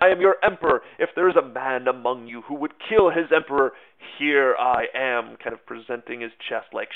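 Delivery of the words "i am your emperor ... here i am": Napoleon addressing troops. Retold or imitated. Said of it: "parted his jacket and said".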